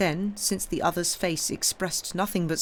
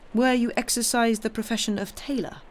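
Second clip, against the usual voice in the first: put-on higher-pitched question in an Italian accent; 6 semitones higher than usual. A narrator's reading. Priest asking about a former trade, Italian accent. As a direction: probe his past with an Italian accent. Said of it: "with a very heavy Italian accent".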